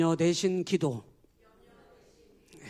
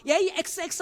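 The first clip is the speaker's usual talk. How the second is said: high, louder mock insult; imitated swearing, hammed-up; mock cursing; 12 semitones higher, 6 dB louder than usual. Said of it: "이런 욕을 하는 사람".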